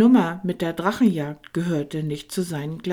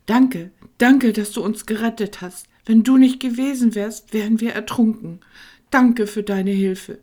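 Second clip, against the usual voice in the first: Heiner, aufgeregt und hoch, stammelnd; stammering; 9 semitones higher, 9 dB louder than usual. A narrator's reading. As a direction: stammer your thanks breathlessly. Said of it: "stammelte Heiner". (Heiner stammelt Tankino seinen Dank vor, aufgeregt)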